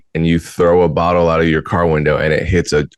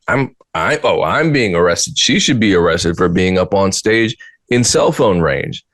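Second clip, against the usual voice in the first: higher, hammed-up protest; mock indignation; 4 semitones higher than usual. Mocking a shocked phone thrower facing consequences, mock indignant. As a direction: plead your case as if outrageously wronged.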